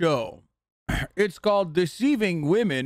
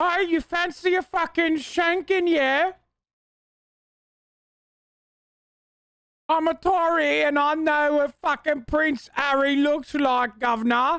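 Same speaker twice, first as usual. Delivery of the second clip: put-on tough, slow, high-pitched English girl voice; 9 semitones higher than usual. Imitating how an english girl would react to a guy pretending: imitating an english girl. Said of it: "they'd be like".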